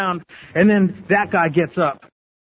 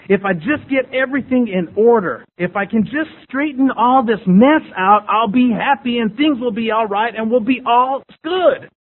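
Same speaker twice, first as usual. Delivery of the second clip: raised, building hopeful insistence; earnest self-delusion; 4 semitones higher than usual. Retold or imitated. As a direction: talk yourself into everything being fixable. Acts out his deluded thinking.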